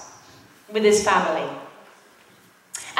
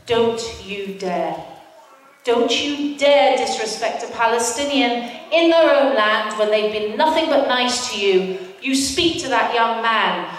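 stern inner voice. Retold or imitated. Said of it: "a voice said to me".

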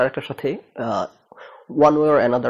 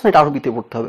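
insistent correction; 6 dB louder than usual. Retold or imitated. Retold cleric insisting on Arabic.

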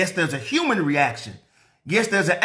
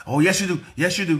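louder, mimicking the callers' insistence; mock insistence; 2 semitones higher, 4 dB louder, faster than usual. Imitating accusers insisting to the pastor, mildly louder. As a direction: push back like the accusers.

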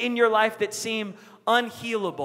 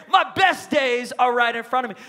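higher, louder retold proclamation; declaring; 4 semitones higher, 5 dB louder than usual. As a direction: declare it with conviction. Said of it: "he was declaring".

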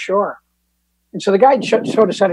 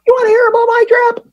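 exasperated retort; 6 dB louder than usual. Retold or imitated. Exasperated retort to sponsor's question.

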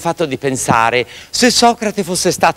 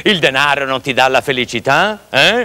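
angry fisherman; 2 semitones lower than usual. Acted. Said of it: "si arrabbiò moltissimo ... gli gridò".

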